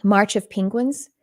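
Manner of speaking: a light Texas twang slipping into "Penguins"; Texas accent. Real, not acted. Speaker naming a film she watched, slipping into a Texas accent. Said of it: "I said it with my Texas accent".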